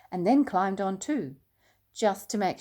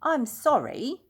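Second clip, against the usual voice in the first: higher, urgent apology; cried out; 7 semitones higher than usual. A narrator's reading. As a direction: bear calling back as he rides away. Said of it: "cried Paddington".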